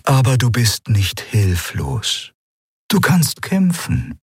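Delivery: slow, calm, otherworldly; Eidolon, serene; calm spirit voice. Acted. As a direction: answer slowly, serene. Eidolon encourages.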